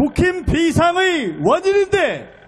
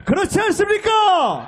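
shouted appeal to crowd; 3 semitones higher than usual. Real, not acted. Asking crowd for agreement.

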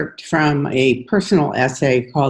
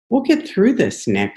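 reassuring; 8 semitones higher than usual. A narrator's reading. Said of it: "I assure him".

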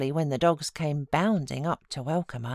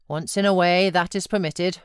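condescending; 5 dB louder than usual. Acted. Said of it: "said Mister Earnshaw condescendingly".

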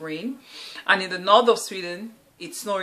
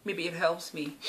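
softer, said to herself; quiet echo; 7 dB quieter than usual. Real, not acted. Echoing her own hope about the gym, softly to herself. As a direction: drop it under the breath, repeating.

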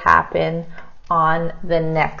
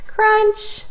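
crunchy sound word. Shown as a demonstration. Teacher showing the class a big word, Crunch up high. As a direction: pop Crunch up high and bite it off short. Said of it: "look how I wrote crunch".

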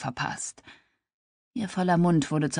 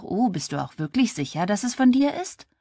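mocking, pitch climbing high at the end; sarcastic; 5 semitones higher than usual. Claire mocking Grant about the baby's father, sarcastic and rising. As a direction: needle him with sarcasm. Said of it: "Mit sarkastischer Stimme fragte sie nach".

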